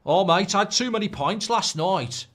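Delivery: jokey hungover player voice; mock hungover footballer. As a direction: groan it like a footballer after a night out. Voicing hungover Grealish.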